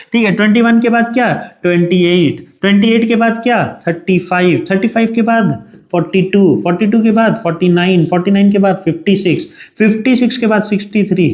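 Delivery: exasperated teacher raising the voice. Real, not acted. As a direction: drive the count hard and quick. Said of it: "मैं चिल्ला रहा हूं".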